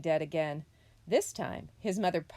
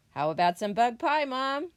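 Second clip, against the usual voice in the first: put-on young possum asking; 6 semitones higher, 7 dB louder than usual. A narrator's reading. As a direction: pitch climbing to a high, loud plea. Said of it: "he asked".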